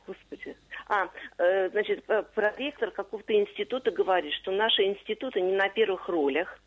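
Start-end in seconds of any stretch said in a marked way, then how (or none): 5.4-6.6 ролях stressed on the first syllable ро; mistaken stress. Retold or imitated. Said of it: "ударение должно быть на окончании".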